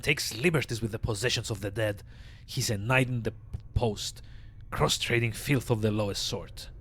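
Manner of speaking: raspy undead mortician voice; raspy old zombie. Acted. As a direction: rasp it out like a weary corpse. Voicing Dahl the zombie.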